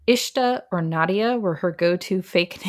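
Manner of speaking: ordinary talk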